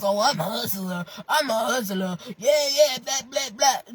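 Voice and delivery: mock boastful hustler talk. Vlogger mimicking fake hustlers, mocking. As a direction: dismissively mimic their bragging.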